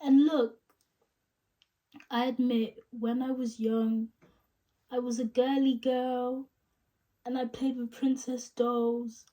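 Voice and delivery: mildly sad, wistful admission; Rachel. Acted. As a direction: confess it with a touch of heartache. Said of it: "sad tone".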